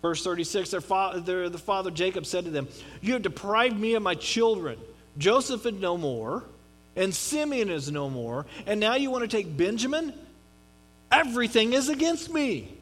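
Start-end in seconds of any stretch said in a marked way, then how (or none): 3.0-12.7 mildly heated complaint. Retold or imitated. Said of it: "Jacob basically goes ballistic here".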